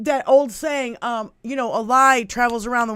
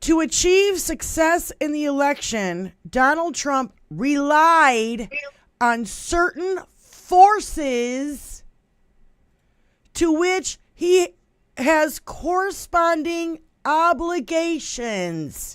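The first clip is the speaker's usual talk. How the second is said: very slow, deliberate, every word drawn out; 3 semitones higher than usual. Giving a quote from a Russian presidential aide so the listener can understand, very slow delivery. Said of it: "I'm saying that very slowly".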